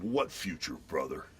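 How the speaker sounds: low, unimpressed wrestler voice; Hulk voice. Retold or imitated. Father stonewalls daughter's nervous boyfriend in the Hulk voice. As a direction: drop low on the last word, intimidating. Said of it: "in the Hulk voice".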